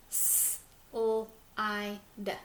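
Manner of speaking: "S-L-I-D" stretched into separate sounds; teacher sounding out for listeners; slow sounding out. Shown as a demonstration. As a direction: sound the word out slowly, one sound at a time. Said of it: "How many sounds?".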